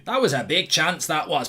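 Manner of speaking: put-on lightly done Scottish accent; a hint of a Glaswegian comic's Scottish accent; understated Scottish accent impression; Billy Connolly. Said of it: "Billy Connolly".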